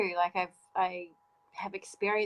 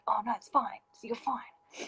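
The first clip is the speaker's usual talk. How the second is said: whispered, higher brush-off; imitating dismissive partner; 4 semitones higher than usual. Mocking an ex who dismissed her tears, whispered brush-off. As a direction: hush it away like it's nothing.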